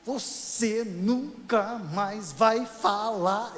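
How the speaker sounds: slow, drawn-out scolding grandmother voice; stern grandmother. Retold or imitated. Grandma warning the grandchild who talks too much, slow stern voice. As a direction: stretch each word like a grim warning grandma.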